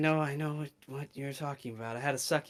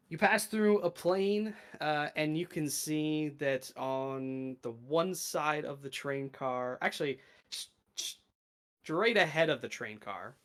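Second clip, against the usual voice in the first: game master narration. Acted. GM describes new plane.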